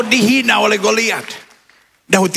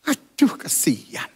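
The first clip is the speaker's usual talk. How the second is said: mock pity; 7 dB quieter, much slower than usual. Mother's pitying sneer.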